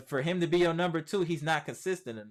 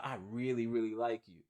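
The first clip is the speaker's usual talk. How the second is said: mock sweet confession; 5 semitones lower, 6 dB quieter than usual. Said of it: "That's like when you tell a female".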